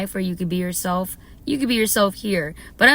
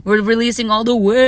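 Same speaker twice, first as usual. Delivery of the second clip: shouted declaration, much louder; loud release; 3 semitones higher, 7 dB louder than usual. Real, not acted. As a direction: proclaim it with full voice.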